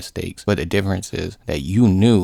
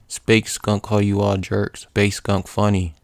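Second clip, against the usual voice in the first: slow, amused brute; lightly voiced Hulk; 2 semitones higher than usual. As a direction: lightly imitate a slow, amused big lug. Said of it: "Hulk starts laughing".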